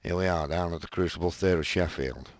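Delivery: low, soft broadcaster's welcome; host's greeting, pitched well down; David Frost impression. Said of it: "do it as David Frost".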